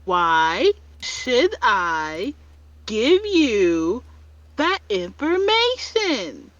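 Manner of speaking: very slow, drawn-out delivery. Acted. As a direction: spell it out slowly. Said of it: "Lux decides to say it slower".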